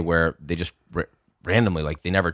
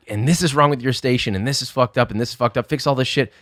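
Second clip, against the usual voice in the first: higher-pitched run of angry complaints; retold yelling; 6 semitones higher than usual. Chef berating cook's station, mock yelling. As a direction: rattle off faults as an imitated angry boss. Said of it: "and he starts yelling".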